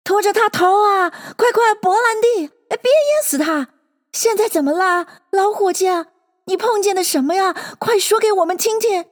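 high, urgent animal chatter; jumbled crowd voices. A narrator's reading. Animals fussing over the choking Bill, clamouring. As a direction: pitch it high, line tumbling after line. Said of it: "又是乱糟糟的许多说话的声音".

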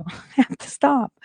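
giggling self-scold; laughing. Real, not acted. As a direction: laugh while telling yourself off. Laughing at own meanness.

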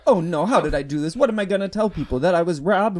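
high, loud mock panic; hammed-up man fretting aloud, questions tumbling out; fretting to himself. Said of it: "Talking to himself the entire time".

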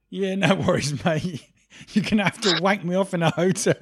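loud, amused caricature of a shady official; mock dodgy official. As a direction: play a crooked official taking a bribe, cracking up. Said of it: "It's like".

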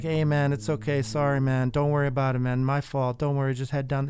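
lightly attempted Jamaican accent, easygoing apology; badly faked Jamaican accent. Jamaican driver placating a screaming passenger, in a bad Jamaican accent. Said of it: "a horrible Jamaican accent that I'm gonna use".

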